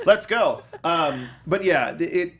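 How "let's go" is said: cheering. Real, not acted. Cheering after "Go!.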